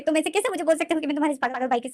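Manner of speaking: high, loud tearful protest; crying in anger. Acted. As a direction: rail against it through tears. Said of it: "wing जो रो रहा था".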